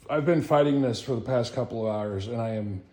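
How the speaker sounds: wheezing through pain; wheezy voice. Real, not acted. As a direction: talk with a tired wheeze. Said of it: "you might hear it in my, that I'm wheezing".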